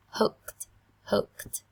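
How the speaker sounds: "hooked" with the -ed said as a crisp t; final t sound. Shown as a demonstration. Teacher modelling the -ed ending for students, crisp final t. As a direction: end "hooked" on a clear t, no extra syllable. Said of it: "đọc thành âm tờ cho cô nhé".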